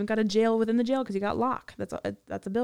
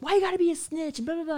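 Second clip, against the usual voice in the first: mocking; 9 semitones higher, 3 dB louder, faster than usual. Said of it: "these girlfriends are like".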